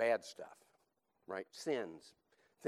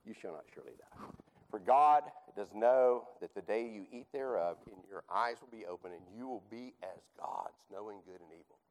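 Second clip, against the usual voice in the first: hissing snake voice; 4 semitones lower, 6 dB louder than usual. Acted. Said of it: "Kind of in a hissing, snaky-like voice".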